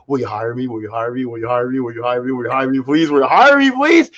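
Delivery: nagging the same question until it breaks upward; begging. Retold or imitated. Teen begs store clerk for a job, pleading harder. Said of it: "I'd be like".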